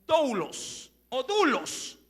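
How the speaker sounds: doulos said slowly, first with ou then u; careful teaching pronunciation of doulos; Greek word doulos. Shown as a demonstration. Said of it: "Se la podría pronunciar así".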